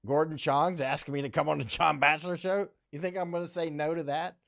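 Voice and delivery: retelling his thrilled reaction to the invite; excited disbelief. Retold or imitated. To his viewers, recalling being invited: excited disbelief. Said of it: "And I was like".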